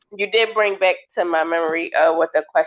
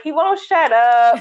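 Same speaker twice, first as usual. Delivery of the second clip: quoting parents; 8 semitones higher, 4 dB louder, slower than usual. Retold or imitated. Parents quoted, laughing.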